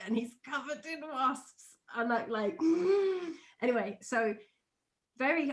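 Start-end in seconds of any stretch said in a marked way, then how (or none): 2.6-3.3 mock horrified gasp. Acting out her shocked reaction.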